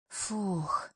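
short soft puff of relief; relieved exhale. A narrator's reading. Heroine catching her breath behind the closed door, soft relieved exhale. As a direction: let out a quiet "phew".

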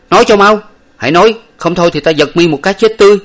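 high, loud fast furious shout; shouting in rage. A narrator's reading. Master lifts his servant and shouts in rage, fast. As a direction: roar the threat, rushing. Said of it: "nói lớn lên rằng".

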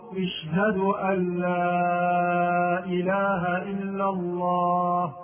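chanted adhan opening اشهد with an i, "ish-hadu"; imperative form. Shown as a demonstration. Teacher mimicking a mistake, imperative "ish-hadu" for the shahada. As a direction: intone slowly, starting اشهد on "ish" instead of "ash". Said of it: "النطق بالشهادة بصيغة الأمر".

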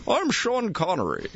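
a light Scottish burr, Connery style; Sean Connery impression. Host doing Connery for cohosts, mild Scottish accent. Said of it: "That does sound like Sean Connery".

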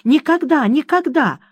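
high, sobbing cry on the repeats; a girl's understated tearful wail. Acted. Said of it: "всхлипывала Кэдди".

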